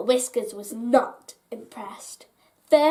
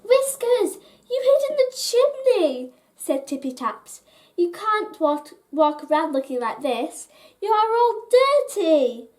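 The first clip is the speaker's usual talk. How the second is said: high, loud fussy scolding; high-pitched scolding of a sooty pet; 6 semitones higher, 5 dB louder than usual. A narrator's reading. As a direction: tell off the messy cat.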